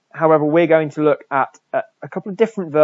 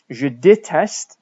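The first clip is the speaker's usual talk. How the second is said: slow model French; 2 semitones higher, 4 dB louder, much slower than usual. Shown as a demonstration. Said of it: "teacher models French answer".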